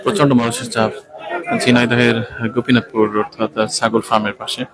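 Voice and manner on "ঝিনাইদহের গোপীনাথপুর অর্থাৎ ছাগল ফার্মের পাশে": talking with nose pinched shut; holding nose against the stench; pinching nose. Real, not acted. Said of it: "নাক চেপে রেখে কথা বলা লাগছে". (নাক চেপে ধরে কথা বলা)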